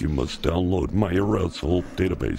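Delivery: flat robot voice. Pretend. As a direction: mechanical robot reading. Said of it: "you're doing the robot voice".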